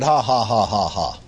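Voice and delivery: low, spelled-out fake ha-ha, sinking; forced laugh. Sick man defies the devil with forced laughter. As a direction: laugh without feeling like it, word by word. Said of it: "flat made myself do it".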